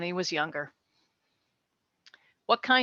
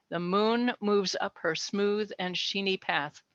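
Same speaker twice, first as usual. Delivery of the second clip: slow poem reading. Shown as a demonstration. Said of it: "And the moon moves up".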